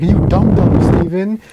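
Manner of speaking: high, animated mimicry; retold teasing insult. Host retells woman teasing Chicklet, high mock scolding. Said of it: "And she's like".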